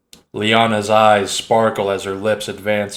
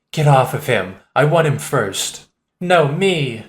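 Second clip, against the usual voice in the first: squabbling; 4 semitones higher than usual. Acted. Women squabbling over him.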